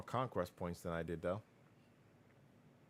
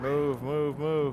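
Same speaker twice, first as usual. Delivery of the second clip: loud, high urgent shouting; 8 semitones higher, 9 dB louder, much slower than usual. Real, not acted. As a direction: yell the order to move. Urgent call to move troops.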